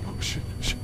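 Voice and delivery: hushed, voiceless swear; whispered curse. Real, not acted. Player hiding, whispers a curse. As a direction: whisper it so it won't hear.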